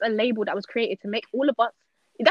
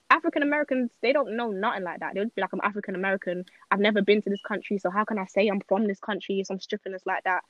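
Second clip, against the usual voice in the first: rapid-fire rant; talking fast. Real, not acted. Podcast guest going off about African Americans, talking fast. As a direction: rattle it off without slowing down. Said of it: "You talk very, very fast".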